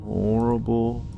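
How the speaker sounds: slow, drawn-out spooky tease; mock spooky. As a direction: stretch the words like a haunted-house host. Spooky buildup to the next room.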